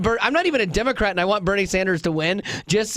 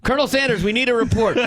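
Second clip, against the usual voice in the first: mock commanding shout; 4 semitones higher, faster than usual. Mock commander calling Colonel Sanders.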